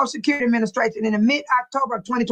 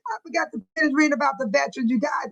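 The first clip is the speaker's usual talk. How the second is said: laughing and rushed; faster than usual. Real, not acted. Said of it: "I got hyped up".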